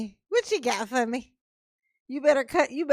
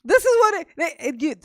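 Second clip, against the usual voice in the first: heated rant; 2 semitones higher than usual. Real, not acted. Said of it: "Mama had to rant a little bit".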